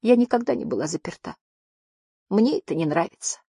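high, small plaintive voice; thin, high-pitched little voice; timid little creature. A narrator's reading. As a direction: confess it like a scared little one. Frightened small creature confesses.

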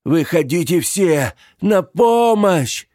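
high, loud cry for help; desperate shout. Acted. The old man screams to the graves for help, high and loud. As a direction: scream for the dead to come.

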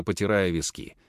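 ordinary delivery

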